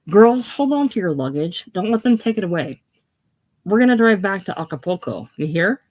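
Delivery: calling to the party below. Acted. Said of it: "She calls to the party below again".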